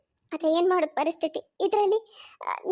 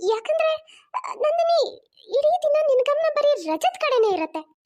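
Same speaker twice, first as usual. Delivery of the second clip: crying and protesting; 2 semitones higher than usual. Acted. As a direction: plead through tears to the mother-in-law. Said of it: "ಅಳ್ಬೇಡಮ್ಮ". (ಅಳುತ್ತಾ ಅತ್ತೆಯ ಬಳಿ ಬೇಡಿಕೊಳ್ಳುವುದು)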